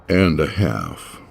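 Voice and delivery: impassive. Acted. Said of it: "voice impassive".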